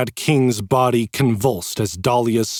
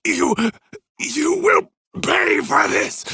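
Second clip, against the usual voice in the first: high, slow, furious threat; howling rage; slower than usual. A narrator's reading. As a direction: spit the threat in fury. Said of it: "let out a howl of rage".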